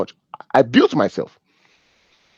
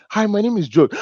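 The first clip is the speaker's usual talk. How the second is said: George giving a simple introduction, lightly voiced, a little higher; ordinary introduction; 4 semitones higher than usual. George introducing himself without a title, modest greeting. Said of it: "how people introduce themselves with titles".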